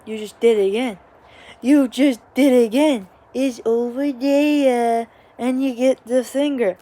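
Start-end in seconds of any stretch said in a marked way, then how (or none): 0.0-5.1 exasperated mom. Retold or imitated. Mom exasperated, repeating herself.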